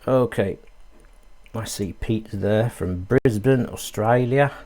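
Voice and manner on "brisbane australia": badly faked Australian accent. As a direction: have a playful go at an Australian accent. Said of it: "That's a very bad accent".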